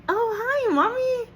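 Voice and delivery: very high, delighted hello to mom; excited greeting. Retold or imitated. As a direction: sing out a giddy greeting. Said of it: "I am so excited".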